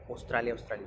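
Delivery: "Australia" starting with O: "Ostralia". Retold or imitated. Teacher copying what people said, O-initial "Ostralia". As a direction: open "Australia" on a plain O, not Au. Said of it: "en vez de la A, la O".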